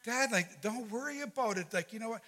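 high, keen brush-off of a worry; excited reassurance. Retold or imitated. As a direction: imitate an eager daughter reassuring dad. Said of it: "And they're all excited".

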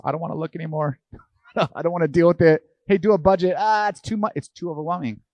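whiny avoidance. Retold or imitated. Preacher mimics people avoiding their finances with a laughing whine. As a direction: moan like someone dodging their bills. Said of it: "We just".

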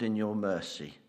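measured, reverent prayer voice. Acted. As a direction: lead the church in prayer. Leads the congregation in prayer.

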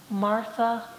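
mild tenderness, unhurried, with a pause between; tender rebuke. Retold or imitated. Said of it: "it was also one of tenderness".

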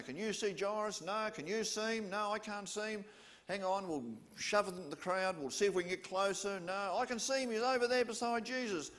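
excited searching crowd. Acted. Crowd members acting out searching.

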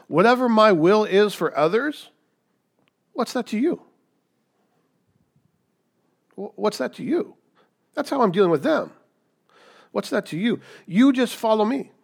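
forceful pulpit delivery; emphatic preaching. Acted. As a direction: drive the point home to the congregation. Preacher voicing Jesus emphatically.

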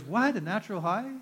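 loud, incredulous scoff; mild mock of an inmate scoffing; mocking disbelief. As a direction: laugh it off in disbelief. Inmate mocks his sobriety claim.

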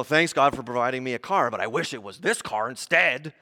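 mock grumbling complaint; put-on ungrateful grumble. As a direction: whine about what you were given, hammed up. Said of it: "we just grumble about things".

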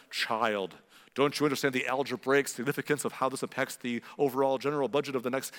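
lightly voiced pompous parent, rattling it off; mock lecturing parent. Parent to little child about budgets, mock lecturing. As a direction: hurry through the jargon like a lecture.

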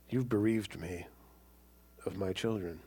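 low, soft mournful reproach; an old father blaming his sons; bitter grief. Retold or imitated. Grieving Jacob accusing his sons.

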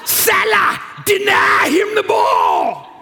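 put-on high, loud, slow shout in a thick Southern accent; laughing imitation of a Southern accent coach shouting; Southern coach yell. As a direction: yell field orders at a player, Georgia Southern accent. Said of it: "with his thick Southern accent".

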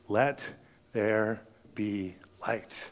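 low, slow, solemn command; voice of God. Retold or imitated. God speaks over the dark waters, low and slow.

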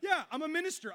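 ordinary delivery

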